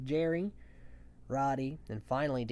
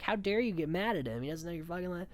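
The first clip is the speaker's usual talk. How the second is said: mock angry Josh; 4 semitones higher than usual. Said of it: "And Josh even gets mad".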